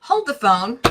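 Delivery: talking while chewing gum. Real, not acted. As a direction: speak around a wad of gum. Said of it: "I have gum in my mouth".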